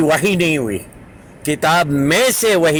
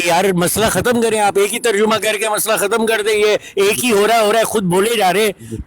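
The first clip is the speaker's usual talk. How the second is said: raised, insistent demand, higher pitch; real irritation; 5 semitones higher than usual. Real, not acted. Debater losing patience with his opponent, angry. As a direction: press him hard to just translate it. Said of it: "غصہ نہ کریں".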